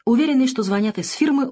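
plain reading voice

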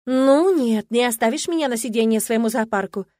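loud, insistent grab-hold protest; won't let him go, says so loudly; firm refusal. Acted. Bride clinging to prince at ball, loud insistent refusal. Heroine grabs his elbow.

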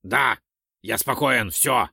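each word said clearly; firm, distinct assurance of being calm; distinctly. A narrator's reading. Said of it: "отчётливо сказал он". (отчётливо, раздельно)

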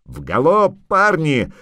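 high, loud rallying yell. A narrator's reading. Dwarf urging his lads to gallop, yelling. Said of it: "завопил Ярпан Зигрин".

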